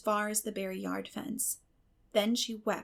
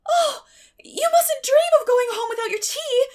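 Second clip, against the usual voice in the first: much higher and louder, pleading in distress; distressed cry; 12 dB louder than usual. A narrator's reading. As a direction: cry out so your guest won't leave. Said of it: "cried Anne in distress".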